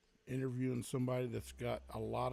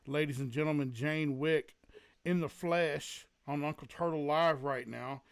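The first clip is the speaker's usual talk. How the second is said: louder hype-man announcement of a guest; announcer intro; 2 semitones higher, 6 dB louder than usual. Acted. Host introducing Jane Wick to the livestream, loud announcer voice. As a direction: present her like a ring announcer, loud and proud.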